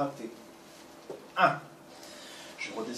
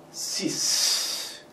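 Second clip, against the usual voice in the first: blowing out hard; 7 semitones higher than usual. Shown as a demonstration. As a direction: count into a long forceful exhale. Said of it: "Je souffle bien".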